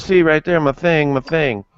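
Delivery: put-on high drunk voice pointing it out; drunk bum. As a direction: show it off like a drunk. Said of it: "And he goes".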